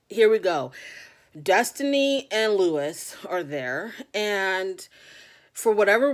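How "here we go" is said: exasperated sigh. Real, not acted. Exasperated aside before bad news.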